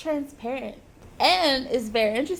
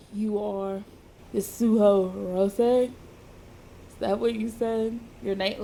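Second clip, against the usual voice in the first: slightly lowered, half-hearted man's voice; hint of a man's voice; 3 semitones lower than usual. Injured man asks if that is the name, lightly voiced man. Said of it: "not even gonna attempt to do a man's voice".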